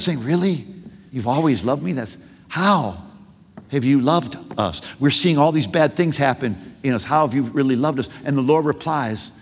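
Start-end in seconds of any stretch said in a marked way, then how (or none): 0.2-8.1 honest and sincere. Acted. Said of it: "they're being really transparent".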